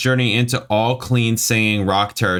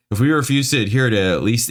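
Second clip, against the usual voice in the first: fast, higher, exasperated read; exasperated rereading; 4 semitones higher than usual. Real, not acted. Reader retries a baffling review line, exasperated. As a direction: rattle it off higher, fed up.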